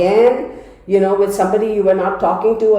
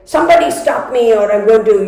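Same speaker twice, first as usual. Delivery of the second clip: half-joking angry outburst, louder; a hammed-up threat, said louder; mock furious outburst; 5 dB louder than usual. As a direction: play it like you're about to lose it. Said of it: "that kind of an energy".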